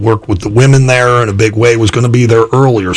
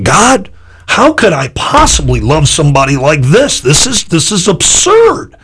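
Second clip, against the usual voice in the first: exasperated disbelief; 4 semitones higher than usual. Retold or imitated. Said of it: "I'm saying".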